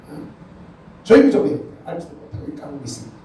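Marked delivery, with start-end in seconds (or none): 1.0-1.6 loud, high order to hush; retold shout. A parent shouting the kids into silence, loud. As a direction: shout them down.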